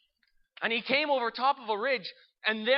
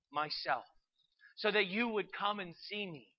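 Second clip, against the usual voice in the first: slow, understated sorrow; weight of sorrow. Acted. Holy Spirit answers the hurt man, mildly sorrowful. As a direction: answer slowly with a touch of sadness. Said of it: "with a weight of sorrow in his voice".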